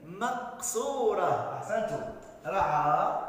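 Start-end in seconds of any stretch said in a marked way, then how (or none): 0.0-1.6 مقصورة said slowly, the final alif drawn out long. Shown as a demonstration. Teacher to pupils, drawing out مقصورة. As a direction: stretch the end of مقصورة for the pupils. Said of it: "نكتبها بألف".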